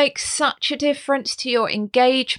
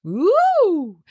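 high ooh; 8 semitones higher than usual. Shown as a demonstration. Pitch demo exclamation.

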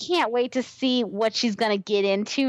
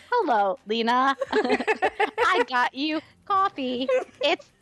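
robot voice; 2 semitones higher, slower than usual. Pretend. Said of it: "Eve starts talking like a robot".

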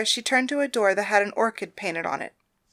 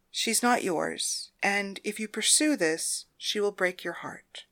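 slow, soft grave warning; quiet warning; 6 dB quieter, slower than usual. Acted. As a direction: warn her gently and slowly. Madam giving grave warning.

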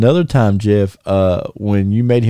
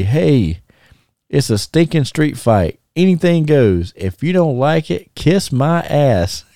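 imitated cursing announcement; 5 semitones higher than usual. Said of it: "heard Jeff, uh, actually curse".

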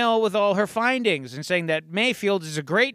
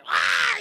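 put-on old woman's cry. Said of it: "she says".

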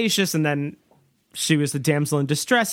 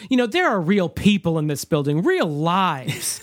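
quoting the businessman; 2 semitones higher than usual. Retold or imitated. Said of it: "he says".

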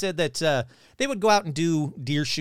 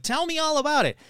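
much higher, eager request; retold eagerness; 12 semitones higher than usual. Urging the stranger to tell his Sasquatch story, eager and much higher. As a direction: lean in, keen to hear everything.

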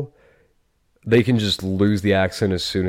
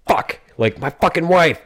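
put-on failed Boston accent; 7 semitones higher than usual. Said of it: "I can't do a Boston accent".

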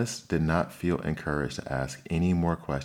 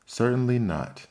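sharp indignant retort, pitched high; offended, huffy denial; 8 semitones higher, 4 dB louder than usual. A narrator's reading. Alice refuses the idea of washing lessons, indignant. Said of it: "said Alice indignantly".

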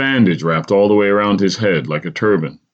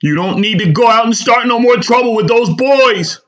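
a worried mother warning her son off trouble; caring frown; 5 dB louder than usual. A narrator's reading. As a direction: scold him gently out of worry. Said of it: "with a caring frown".

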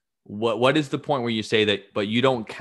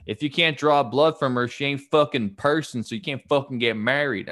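lightly put-on Southern US accent; a hint of stereotypical Southern objector; 2 semitones higher than usual. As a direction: slip into a mock Southern accent. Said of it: "I'm taking the Southern accent on that one".

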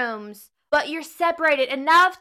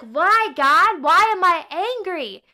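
exasperated; 4 semitones higher, 4 dB louder than usual. Retold or imitated. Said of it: "and you're like".

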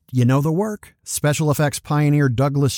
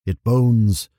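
slow, grand tragic lament; hammy stage actor; slower than usual. Acted. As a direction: overplay it like old theatre. Mock lament over Bender news.

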